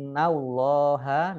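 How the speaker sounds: "Innallaha" with a pressed, humming double n; "Innallaha", nn held two beats, thick l; held ghunnah. Shown as a demonstration. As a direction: slowly recite "Innallaha", lingering on nn. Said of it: "nun tasdid dibaca gunnah".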